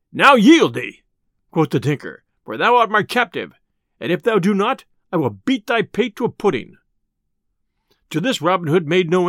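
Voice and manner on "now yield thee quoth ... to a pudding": a touch of a menacing tinker; lightly voiced angry tinker. Tinker orders Robin to yield, lightly acted threat.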